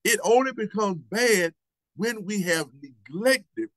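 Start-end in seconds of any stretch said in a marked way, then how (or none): 2.0-3.7 neglected drawn out slowly, weighed down; stress on neglected. Shown as a demonstration. Preacher warning the congregation, slow emphasis on neglected. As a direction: lean hard on neglected, slowly. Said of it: "and I emphasize that word".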